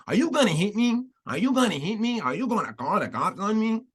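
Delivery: high, singsong mock Afro-Latina accent; deliberately terrible put-on Black-Hispanic accent, swooping up high. Host mocking Jessica Krug's fake accent, exaggerated high Afro-Latina put-on. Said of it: "our horrible version of a black people or Spanish accent".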